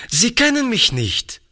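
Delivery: put-on high, eager boyish voice, bursting to explain; a lively young boy pleading his case; lively boy Toni. A narrator's reading. Toni eagerly tells the lady she doesn't know him. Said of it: "sagte Toni lebhaft".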